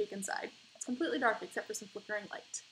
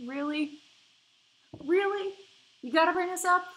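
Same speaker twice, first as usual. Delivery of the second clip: loud, high exasperated protest; exasperated outburst; 8 semitones higher, 9 dB louder than usual. Acted. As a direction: yell in disbelief at the topic.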